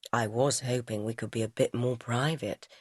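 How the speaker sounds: lightly voiced man. A narrator's reading. Alec answers.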